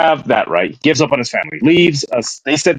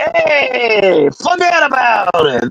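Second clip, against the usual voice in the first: put-on mimicked old man voice, pitched higher; 9 semitones higher than usual. Mocking a man who looks like he runs a fruit stand: imitating an old fruit-stand man. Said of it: "He looks like he runs a fruit stand".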